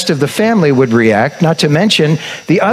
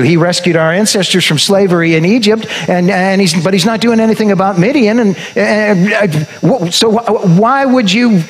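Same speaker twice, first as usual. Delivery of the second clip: higher, exasperated protest; a mild mock complaint, voice pitched up; ticked off; 6 semitones higher than usual. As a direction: Gideon pleading, a bit ticked, with the angel. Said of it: "Gideon seems to feel a little ticked".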